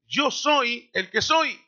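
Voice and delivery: slow, weighty, each word set apart; slow solemn declaration. Acted. Preacher voicing God, slow and solemn. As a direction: proclaim it like God naming himself. Quoting God's self-declaration.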